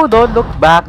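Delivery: loud, high warning cry; urgent shout. Real, not acted. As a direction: shout it as you flee. Still fleeing in the chase. (pasigaw na babala habang tumatakas)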